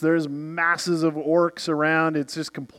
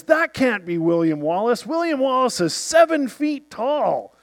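doubting soldier; 7 semitones higher than usual. Retold or imitated. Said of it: "the guy says".

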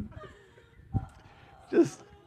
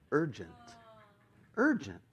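building indignation; 4 dB quieter than usual. Retold or imitated. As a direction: repeat it incredulously, pitch climbing each time.

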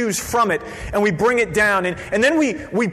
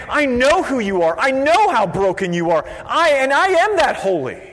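emphatic, ringing declaration; God declaring; 6 semitones higher, 4 dB louder than usual. Acted. God to his broken people, emphatic declaration. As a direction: build in pitch and force to the last phrase. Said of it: "It's God saying".

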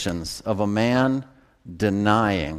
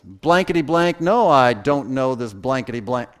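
Peter cursing; 2 semitones higher, 4 dB louder than usual. Retold or imitated. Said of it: "You know that's how he did it".

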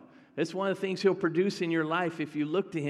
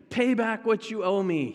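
raised, forceful mock demand; acted-out demand from a creditor; retold demand; 5 semitones higher, 4 dB louder than usual. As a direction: demand it, higher-pitched and insistent. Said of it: "he demanded".

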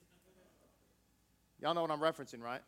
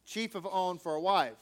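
measured, solemn reading of scripture; steady formal Bible reading. Acted. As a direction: read it out like a text from the pulpit. Reads scripture aloud.

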